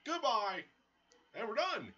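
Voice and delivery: high, loud victory call; triumphant shout. Real, not acted. Player finishing off the enemy, triumphant shout. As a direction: shout the win in high excitement. Wins the fight.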